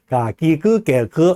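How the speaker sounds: 가기그개거 with drawn Chinese vowels; Chinese sound. Shown as a demonstration. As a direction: read 가기그개거 with a Chinese feel. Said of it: "하면은 중국어 같은 그런 느낌".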